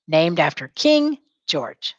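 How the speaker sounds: "Named after King George" said slowly, "King" stressed; slow it so the class can follow; slow model line. Shown as a demonstration. Teacher modelling a line for students to repeat, slowly. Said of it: "Say it as you're writing".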